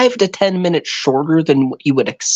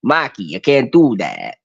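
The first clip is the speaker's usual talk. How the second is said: put-on half-hearted Boston accent. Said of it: "I can't do the fucking Boston accent".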